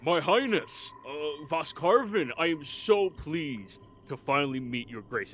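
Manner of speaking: flattering, swooping voice to royalty; fawning underling. Acted. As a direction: gush with nervous deference. Underling fawns before the ruler.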